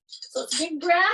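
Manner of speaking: normal talking voice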